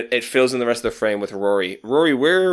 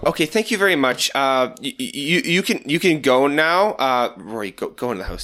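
brisk dismissive mother; 5 semitones higher than usual. Acted. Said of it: "she's gonna go".

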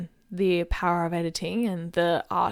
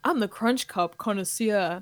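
radio ad spokesperson. Acted. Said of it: "two people in conversation".

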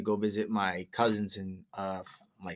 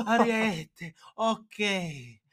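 put-on high relieved old lady voice; old shopkeeper realizing; 11 semitones higher, much slower than usual. Old jeweler understanding the word ariete, high relieved voice. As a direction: say it like the penny just dropped. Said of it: "She's like".

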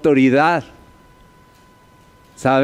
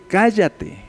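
stern command; 4 semitones higher than usual. Retold or imitated. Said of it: "le dice".

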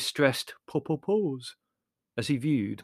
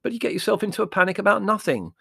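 loud exasperated scoffing; 9 semitones higher, 6 dB louder than usual. Acted. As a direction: scoff at her loudly. Larry mocking Mother's panic.

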